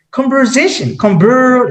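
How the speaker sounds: conversation, each syllable careful and clear; conversation, said deliberately; correct version. Shown as a demonstration. Learner showing the correct word from Google, careful. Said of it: "search on Google".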